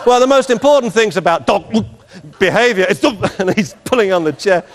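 high, laughing mock TV presenter; strained presenter. Presenter carrying on while the dog pulls the chair, strained and high.

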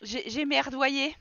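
slow, stretched admission; drawn-out. Pretend. Player voicing her Sim's blunder, slow and drawn out. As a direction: drag each word out sheepishly. Repeats the phrase twice.

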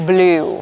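"blue" with a long "oo", as "bloo"; careful teacher's "blue", no "iw" glide; model pronunciation. Shown as a demonstration. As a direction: say "blue" with a clean L and อู vowel. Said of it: "ก็เช่นเดียวกัน".

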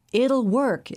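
high, triumphant burst; exultant. A narrator's reading. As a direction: crow it out in triumph. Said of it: "exulted Zaid".

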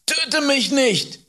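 very high, drawn-out, loud plea; terrified scream. A narrator's reading. Boy begs man with knife, screaming in terror. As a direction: scream slowly, begging for your life. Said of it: "schrie ich".

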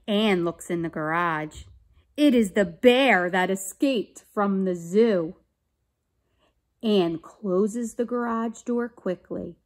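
put-on clear, emphatic children's story narration; read-aloud story. A narrator's reading. Teacher reading a police story to children, animated narration. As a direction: read it out carefully for young listeners. Reads a picture book aloud.

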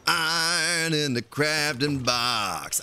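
slow, stretched words; drawn-out. Pretend. Gamer echoing his crafting line to himself, drawn out. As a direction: draw every word out slowly.

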